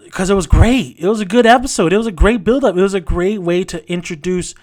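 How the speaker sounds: a fan's rant; heated praise. Real, not acted. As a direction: punch each word in frustration. Frustrated fan ranting about finale.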